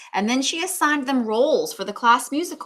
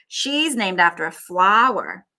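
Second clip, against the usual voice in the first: slow scornful jab; 6 dB louder than usual. Acted. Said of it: "said Victoria".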